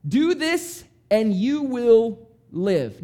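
high, loud cheer of you got it; excited approval. Retold or imitated. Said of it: "And Jesus said".

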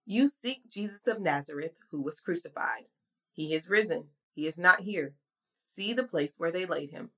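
measured Bible reading voice; scripture reading. Acted. Scripture reading opening sermon.

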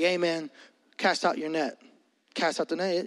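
hood Jesus. Retold or imitated. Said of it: "a hood Jesus in my Bible".

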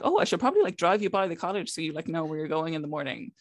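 lightly voiced helpful dad.

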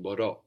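μπορώ with the accent on the final ρώ; stress on the ending. Shown as a demonstration. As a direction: stress the last syllable of μπορώ. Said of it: "We have it on the ending".

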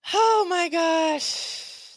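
high, loud, very slow; host reacting to her own rant, drawn out; exasperated. Real, not acted. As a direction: stretch it out in disbelief.

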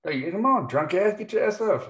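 high nagging wife voice; hiss-yell like an annoyed wife; stage whisper. Retold or imitated. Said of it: "my wife's over there".

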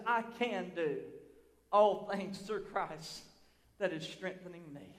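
hushed verse. Acted. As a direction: let the verse settle quietly. Slow hushed reading of verse.

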